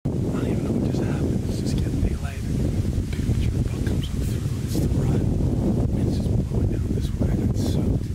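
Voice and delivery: hushed hunter's whisper. Real, not acted. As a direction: whisper so the deer won't hear. Hunter whispers in tree stand.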